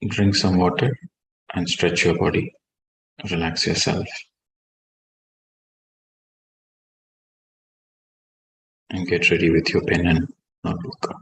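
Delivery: soft, low meditation voice with long pauses; guided meditation. Real, not acted. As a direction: bring them gently out of meditation.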